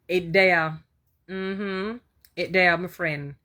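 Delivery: a light Jamaican Patois lilt on the words; Jamaican accent. Shown as a demonstration. Vlogger shows his born Jamaican accent, lightly voiced. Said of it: "I have my Jamaican, born Jamaican accent".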